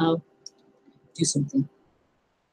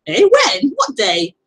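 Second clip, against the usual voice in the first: imitating child again; 4 semitones higher, 4 dB louder, slower than usual. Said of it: "how he said it".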